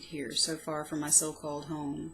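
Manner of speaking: measured, heartfelt poem recital; poem reading. Acted. Poet reading her old poem aloud, heartfelt recital. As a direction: read it like a private diary poem.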